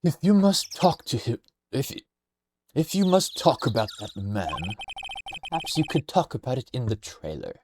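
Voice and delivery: lightly put-on character voice, unsteady; a voice that starts high and slips; slipping character voice. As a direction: try to hold a character's voice. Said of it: "I lost the voice again".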